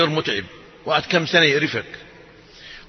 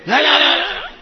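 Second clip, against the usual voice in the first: high, rising no no no; incredulous no; 11 semitones higher than usual. Acted. Preacher mocking revenge on a neighbor, high incredulous no. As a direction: refuse it in disbelief, pitched way up.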